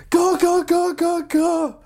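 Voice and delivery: high-pitched urgent yelps; panicked retold shouting. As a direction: imitate a passenger screaming to get away. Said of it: "the person that I'm with starts screaming".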